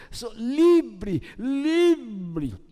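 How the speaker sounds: elongated, lightly acted cry of freedom; mock carefree cry. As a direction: imitate someone gushing about being free. Acts out women wanting freedom. (imitando, grito de liberdade)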